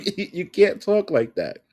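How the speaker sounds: high, loud and slow through laughter; cracking up while scolding; laughing disbelief. Real, not acted. Creator laughing at the therapist's clip, loud and slow through laughter.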